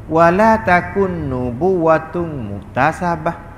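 slow, measured Arabic quotation; Arabic recitation. Acted. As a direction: recite the Arabic line slowly, stretching each word. Recites Arabic line from the text. (bacaan matan Arab perlahan)

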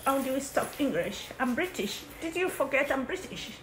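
mock British accent, lightly done; a kid faking a British accent; put-on British accent. Sister teased for her mock British accent. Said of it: "that's not how you talk English".

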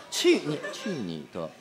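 imitating partner. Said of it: "四个字儿".

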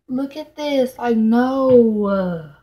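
real exasperated protest; pissed off. Real, not acted. Vlogger showing the broken item to camera, pissed off. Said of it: "this just pissed me off".

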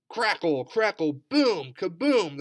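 loud crackling thunder sounds; booming thunder. A narrator's reading. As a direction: boom it out like thunder. Imitating thunder in storm story.

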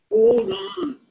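firm interruption. Retold or imitated. Interrupting Rick's self-talk.

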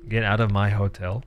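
low, lightly voiced snippy hotel owner; mock rude Greg. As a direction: brush him off as Greg. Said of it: "he's got a little bit of an attitude".

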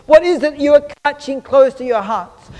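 mock taunting. Friends tease a boy on his way to the prison, mock taunting. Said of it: "started making fun of him".

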